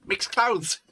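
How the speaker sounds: high-pitched mock Aboriginal Australian accent; hammed-up attempt at an Aboriginal Australian accent. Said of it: "There's him doing an Aboriginal Australian accent".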